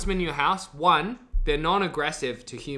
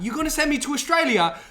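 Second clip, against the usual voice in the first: higher-pitched, put-on incredulous protest; mock disbelief; 9 semitones higher than usual. Prisoner to the one sentencing him, mock disbelief. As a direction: play a convict aghast at the sentence.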